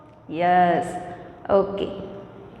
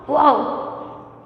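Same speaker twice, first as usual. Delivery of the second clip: dog bark; 3 dB quieter than usual. Shown as a demonstration. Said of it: "How does dog sounds?".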